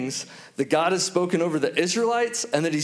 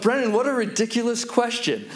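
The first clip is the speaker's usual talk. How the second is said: higher, mock-incredulous scolding; playfully exasperated, pitched up; amused disbelief; 4 semitones higher than usual. Father inwardly reacting to his three-year-old's ridiculous question, amused disbelief. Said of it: "I started to laugh. I thought".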